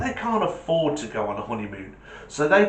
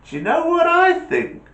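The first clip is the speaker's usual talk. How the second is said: put-on eager kid; 6 dB louder than usual. Jimmy voiced high.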